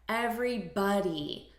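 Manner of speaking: "everybody" with BODY said like "buddy"; reduced vowel pronunciation. Shown as a demonstration. Teacher showing learners the pronunciation of "everybody", reduced vowel. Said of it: "notice the pronunciation here".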